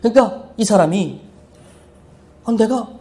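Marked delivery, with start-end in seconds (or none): 2.5-2.9 higher-pitched, mildly imitated lament; retold weeping, understated; mock tearful. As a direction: imitate someone tearfully questioning himself. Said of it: "막 울면서 얘기하는 거예요".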